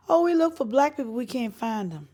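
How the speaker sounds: mocking label heads. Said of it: "All these label heads here said".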